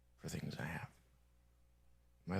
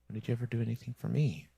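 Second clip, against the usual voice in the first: fast, louder, accusing; angry outburst; 3 semitones higher, 6 dB louder, faster than usual. Real, not acted. Ranting at the world for never helping, fast and angry. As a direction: fire the question at everyone who ignored him.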